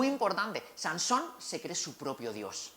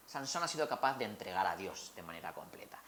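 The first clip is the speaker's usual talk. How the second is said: whispering; 7 semitones lower, 8 dB quieter than usual. Real, not acted. Dramatic aside in sermon.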